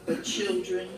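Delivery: measured poetry recital, each phrase set apart by pauses; solemn poem read aloud to an audience. Acted. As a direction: read it as verse, line by line, each ending falling. Reads own poem aloud.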